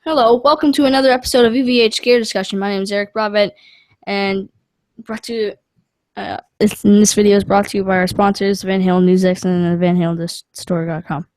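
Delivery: with expression. Shown as a demonstration. Son showing dad an expressive show opening. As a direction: sell it like a real show host. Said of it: "You have to say it with expression".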